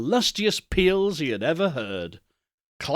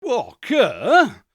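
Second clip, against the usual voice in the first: exclaimed; 6 semitones higher, 5 dB louder than usual. Acted. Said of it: "exclaimed the boy".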